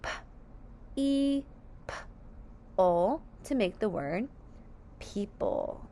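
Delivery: P, E, P, O spaced out, then people; sounding out people. Shown as a demonstration. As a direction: tap each sound then blend people. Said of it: "Let's sound out people together".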